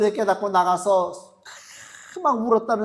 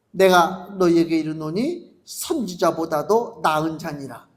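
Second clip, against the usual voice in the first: slow, solemn reading of the verse; scripture reading; 3 semitones lower than usual. Acted. Preacher reading the verse to the congregation, solemn and slow. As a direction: read the words of Jesus with weight.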